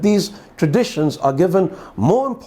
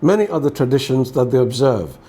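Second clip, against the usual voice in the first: measured, solemn Gospel reading; formal liturgical reading; scripture reading. Acted. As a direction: read the Gospel aloud to a congregation, evenly. Reads the Gospel aloud.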